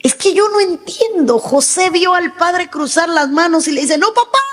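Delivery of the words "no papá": pleading son. Retold or imitated. Son pleading with his father.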